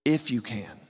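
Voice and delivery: soft, calm If you can; Jesus gently answering the father; gentle answer. Shown as a demonstration. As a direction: answer him kindly. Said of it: "It's actually an answer".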